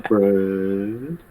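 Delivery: lightly voiced slow dim-witted guy; a hint of a dopey goldfish drawl; Bubba Goldfish voice. Shown as a demonstration. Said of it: "the Bubba Goldfish voice".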